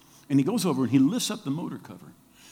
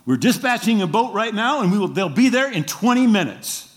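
higher, louder official reply; Coast Guard dispatcher; 7 semitones higher, 7 dB louder than usual. Retold or imitated. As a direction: report it like a radio dispatcher.

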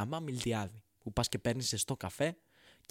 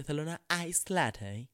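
put-on affected English accent; 2 semitones higher, slower than usual. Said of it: "βάζετε προφορά στο να παραγγείλετε καφέ".

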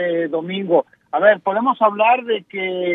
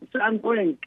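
glitching audio; 2 semitones higher, 6 dB quieter than usual. Real, not acted. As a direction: call cutting out mid-word. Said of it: "se nos está cortando la llamada".

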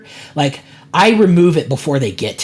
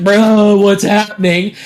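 louder, higher imitation of a startled kid; mock bewilderment; 5 semitones higher, 5 dB louder, slower than usual. Kid surprised with a gift, mock bewildered. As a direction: exclaim it like a baffled kid. Retold startled kid's reaction.

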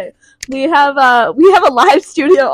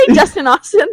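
bright, louder singsong hello; cheery mock greeting; 7 semitones higher, 4 dB louder than usual. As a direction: call out his full name playfully. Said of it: "When have I ever been like".

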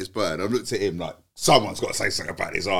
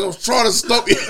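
higher, louder, laughing mock protest; laughing exasperation; 14 semitones higher, 9 dB louder than usual. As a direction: squeal it through laughter. Dave's reply, told laughing.

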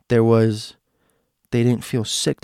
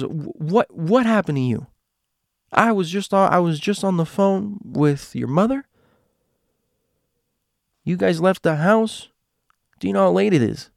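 angry yelling mother; 8 semitones higher than usual. Retold or imitated. Neighbor girl's mother yelling at the kids on the driveway, high angry yell. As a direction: scold them like a furious mom.

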